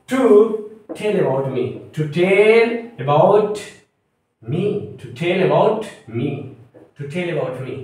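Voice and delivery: very slow, word by word; slow full sentence dictation. Shown as a demonstration. Teacher reading the model sentence slowly for students to note. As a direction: read the whole sentence slowly for notes. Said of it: "okay".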